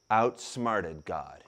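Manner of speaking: slow and low, savour each word; deadpan reveal of the punchline; low, drawn-out deadpan; dramatic slow drop. Real, not acted.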